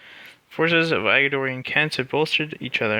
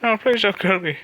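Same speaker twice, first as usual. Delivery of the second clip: begging goblin; 6 semitones higher than usual. Acted. Goblin with a severed hand begging not to be killed, high pleading squeal. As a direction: squeal for mercy like a cowering goblin. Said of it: "It's like".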